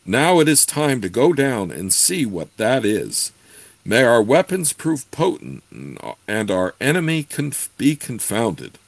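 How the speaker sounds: a hint of a solemn druid; mystical druid voice. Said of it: "said the druid".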